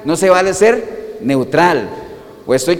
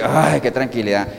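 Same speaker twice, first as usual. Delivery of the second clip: long sigh of relief on "ay"; relieved; 4 semitones lower than usual. Acted. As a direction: let it out, relieved after being sick. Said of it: "cuando usted logra botar aquello que te molesta". (con alivio)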